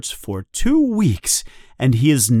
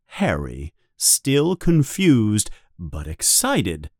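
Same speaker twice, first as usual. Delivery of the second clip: ordinary delivery, nothing marked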